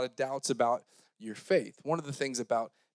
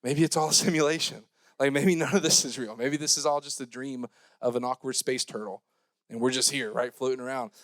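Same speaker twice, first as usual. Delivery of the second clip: dreamy philosopher. Retold or imitated. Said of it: "staring up at the sky going".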